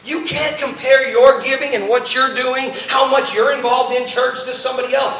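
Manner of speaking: forceful, driving pulpit questions; impassioned preaching. Real, not acted. Preacher challenges church on their giving, impassioned preaching. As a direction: hammer each challenge at the congregation.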